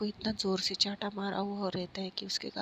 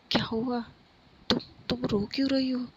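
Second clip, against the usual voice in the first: worried surprise; 3 semitones higher, 4 dB louder than usual. Acted. Khushi finding Pari crying on the terrace, worried surprise. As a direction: rush in, alarmed to find her crying.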